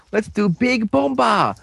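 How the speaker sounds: high-pitched team battle cry; mock attack call. Storyteller as the team launching an attack, high rallying call. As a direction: announce the finisher in a high voice.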